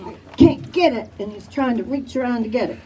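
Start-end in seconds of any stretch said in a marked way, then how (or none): 0.1-1.1 a touch higher, strained and short of breath; imitating breathless son. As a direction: voice the son's struggle for air. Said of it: "talking like this".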